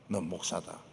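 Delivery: 나지막이 타이르듯 귀에 대고; 조용히 못 박듯 말해라; 귀에 속삭이는 주님 목소리. Retold or imitated. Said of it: "주님이 귀에 대놓고". (귀에 대고 일러 주는 주님의 나직한 음성)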